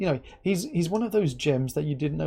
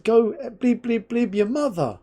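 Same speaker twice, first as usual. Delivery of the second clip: retold angry retort; 8 semitones higher, 5 dB louder than usual. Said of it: "I said".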